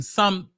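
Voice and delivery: "something" said as a question; questioning tune. Shown as a demonstration. Host qualifies praise of pole work, "something" turned questioning. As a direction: lift the end of "something" like a doubtful question. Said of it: "with a question mark".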